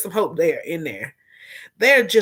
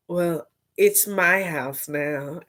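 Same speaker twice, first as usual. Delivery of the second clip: shady calm; 3 semitones lower, 4 dB quieter, slower than usual. Retold or imitated. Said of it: "she said".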